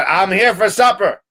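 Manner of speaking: high, slow announcement; slow lordly declaration; imperious duke. Acted. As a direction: announce it grandly, drawing it out.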